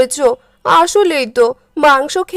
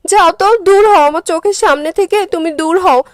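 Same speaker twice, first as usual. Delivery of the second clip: angry scolding; 3 semitones higher than usual. Acted. Wife scolds husband over food.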